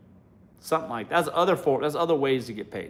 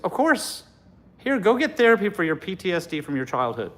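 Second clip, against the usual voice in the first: put-on eager boyfriend; 4 semitones higher than usual. Boyfriend agreeing to pay.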